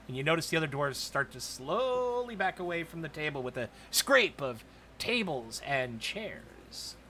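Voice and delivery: ordinary talk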